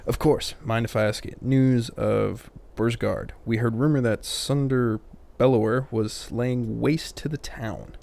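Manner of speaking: slow, badly faked Irish accent; game character in a shaky attempt at Irish; terrible Irish accent. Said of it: "still a terrible accent".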